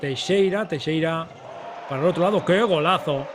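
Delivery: rising excitement on a goal; excited goal call. Real, not acted. Goal call in live commentary.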